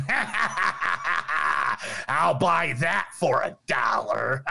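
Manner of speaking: hammed-up cackle then slow line; lightly voiced goofy movie thug; movie villain laugh. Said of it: "You gotta see the guy going".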